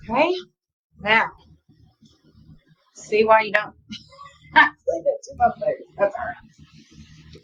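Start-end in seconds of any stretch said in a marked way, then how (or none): 4.1-7.4 laughing. Real, not acted. Laughs at own mistake.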